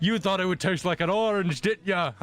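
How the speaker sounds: teasing laugh. Acted. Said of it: "Gervon's just laughing".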